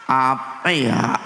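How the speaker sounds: a hint of a pampered wife wondering aloud; coy wife. Wife pondering what to eat, slow and coy.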